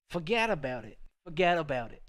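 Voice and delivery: hammed-up Boston catchphrase; Boston accent. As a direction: toss it off like a mock Bostonian. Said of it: "like, a Boston accent".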